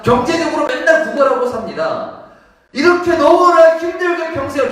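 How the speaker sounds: high, loud impassioned sermon; forceful preacher at full volume; full-force preaching. Real, not acted. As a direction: cry out the man's plight to the congregation.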